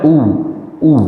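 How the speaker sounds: ऊ as a long oo with rounded lips. Shown as a demonstration. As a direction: round the lips slightly and hold ऊ. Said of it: "थोड़ा सा गोल करके बोलते हैं".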